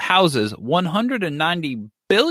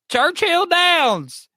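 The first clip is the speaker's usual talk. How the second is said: drawn-out answer; 14 semitones higher, much slower than usual. Pretend.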